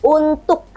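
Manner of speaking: untuk with the final K clearly sounded; Indonesian pronunciation. Shown as a demonstration. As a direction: finish untuk firmly on its K. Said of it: "Kalau orang Indonesia ngomongnya". (untuk logat Indonesia, K jelas)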